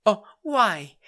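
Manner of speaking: breathy whisper; whispered why. Retold or imitated. Mom whispering a puzzled why. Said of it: "mom asking, whispered".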